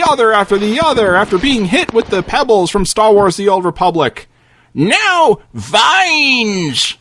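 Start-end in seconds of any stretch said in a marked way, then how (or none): 4.7-6.9 yelled spell. Acted. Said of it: "the old man yells".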